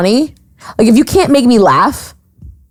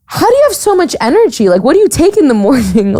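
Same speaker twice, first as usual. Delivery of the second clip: excited question; 5 semitones higher, faster than usual. Retold or imitated. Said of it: "I was like".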